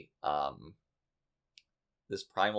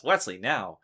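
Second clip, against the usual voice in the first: mildly raised voice, imitating a shout; retold shout; 5 dB louder than usual. Host retells the order to Wesley at the transporter, mock shout. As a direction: quote an urgent order, a little louder. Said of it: "and he shouts".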